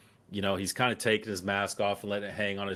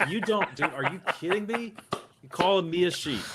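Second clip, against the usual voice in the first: retold angry confrontation; 8 semitones higher than usual. Veteran confronting the old man who called him sheep, mock-furious. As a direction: get in his face and demand an answer.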